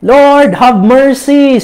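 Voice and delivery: mild mock shout, stretching the words; retold cry for mercy. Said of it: "Tapos sumisigaw sila".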